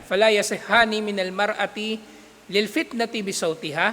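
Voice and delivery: rapid textbook Arabic read aloud; fast Arabic recitation. Acted. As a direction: rattle off the Arabic text quickly. Reads Arabic text quickly.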